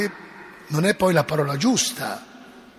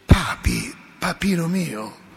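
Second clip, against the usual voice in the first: tender; slower than usual. Retold or imitated. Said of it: "Francesco invece diceva".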